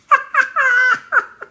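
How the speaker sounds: real high-pitched cackling laugh; helpless shrieking laughter; loud high laughing fit. Real, not acted. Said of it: "Tawang-tawa talaga ako".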